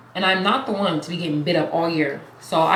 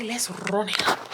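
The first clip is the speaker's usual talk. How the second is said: hype line. Acted. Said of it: "What did I say".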